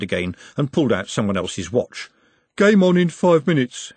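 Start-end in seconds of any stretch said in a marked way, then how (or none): 2.6-3.9 loud, high announcement; declaring. A narrator's reading. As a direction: declare it to the whole group. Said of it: "he declared".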